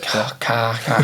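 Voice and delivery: car with a long drawn R; dragged-out R. Shown as a demonstration. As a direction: stretch the R in car. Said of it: "Just drag the R out".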